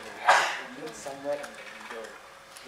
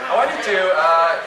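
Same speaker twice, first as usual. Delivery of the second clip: laughing; 4 semitones higher, 11 dB louder than usual. Real, not acted. Laughing before giving instruction.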